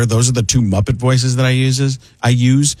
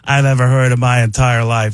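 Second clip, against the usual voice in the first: Mark Ruffalo impression. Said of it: "it's Mark Ruffalo".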